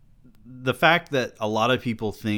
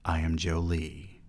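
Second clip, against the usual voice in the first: put-on soft, low whisper of a frightened girl; hushed frightened girl; 4 semitones lower, 8 dB quieter than usual. A narrator's reading. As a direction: breathe the name timidly. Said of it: "she whispered".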